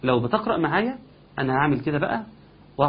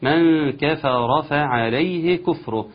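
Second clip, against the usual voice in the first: slow measured Quranic recitation; tajweed recitation; much slower than usual. Shown as a demonstration. Teacher reciting the verse for students. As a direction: recite each vowel fully. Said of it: "يقول الله سبحانه وتعالى".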